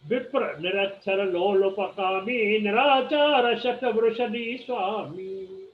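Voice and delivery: like quoting scripture, slow and measured; slow recitation. Shown as a demonstration. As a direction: recite the verse slowly and weightily. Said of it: "reciting a verse". (धीमा, गंभीर पाठ)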